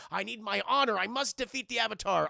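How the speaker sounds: a hint of an angsty cartoon prince vowing revenge; Prince Zuko. Rival compared to a cartoon prince, lightly voiced honor-bound vow. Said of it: "He's like Prince Zuko".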